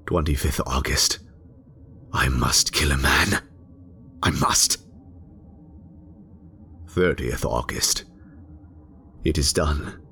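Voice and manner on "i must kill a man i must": obsessed whisper. Acted. Resolving to murder.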